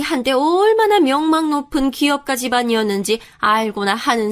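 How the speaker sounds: put-on condescending older woman putting the girl in her place; haughty mother-in-law. Mother-in-law boasting of her family to the fiancée, condescending. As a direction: talk down with affronted pride.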